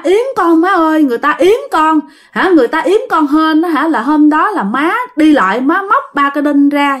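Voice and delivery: high, insistent plea to mother; chú Chính pleading through his brother. Acted. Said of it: "Chú Chính nói rằng á là".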